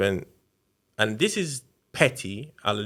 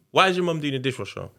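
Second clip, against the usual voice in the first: rhetorical; 4 semitones higher, faster than usual. Retold or imitated.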